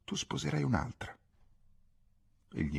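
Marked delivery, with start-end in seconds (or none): 0.1-1.1 soft, slightly raised, composed statement; calm, without feeling. A narrator's reading. Ghisola telling Pietro he will marry another, calmly. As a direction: say it quietly, with understated calm. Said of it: "disse con calma, senza nessun sentimento".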